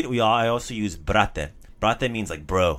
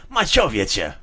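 upset; 3 dB louder, slower than usual. Shown as a demonstration. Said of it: "You're upset".

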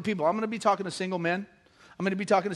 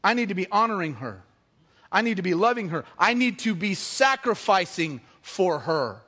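sincere resolve; 4 semitones lower than usual. Retold or imitated. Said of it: "look at that woman and say".

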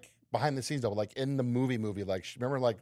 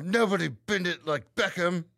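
slow, higher, tight-mouthed actress mimicry; Keira Knightley; 5 semitones higher, slower than usual. Cohost showing off the corrected impression, tight-mouthed actress voice. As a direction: draw it out through a barely opened mouth. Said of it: "Literally, you sound just like her".

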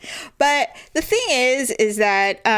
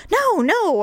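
retold hasty denial; 9 semitones higher than usual. Retold denial of laughing at him.

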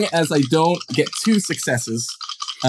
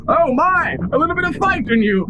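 higher, fast amused nobleman; smug villain voice; 13 semitones higher than usual. Acted. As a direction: taunt it like a gloating lord. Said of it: "And he says".

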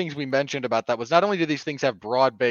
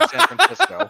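laughing; 5 dB louder than usual. Real, not acted. Mocking punchline.

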